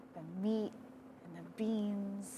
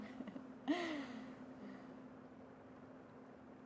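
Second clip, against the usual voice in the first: soft, airy laugh of excitement; happy chuckle; 6 semitones higher, 7 dB quieter than usual. Real, not acted. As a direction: let out a quiet, delighted chuckle. Joy at making it happen.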